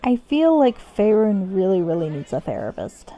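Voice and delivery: a conspiratorial whispered aside to viewers. Real, not acted. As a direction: lean in and whisper the joke. Whispered aside about the story.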